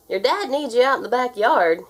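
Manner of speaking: loud call across the room; shouted. A narrator's reading. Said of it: "he shouted".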